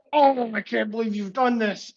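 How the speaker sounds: dramatic outraged villain. Acted. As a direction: wail it like a hammy bad guy. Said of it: "and he goes".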